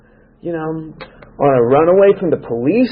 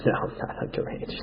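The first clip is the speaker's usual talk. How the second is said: barely breathed denial, mock innocent; whispered lie; 18 dB quieter than usual. A drunk teen whispering his lie to the cop. Lying to the cop about age.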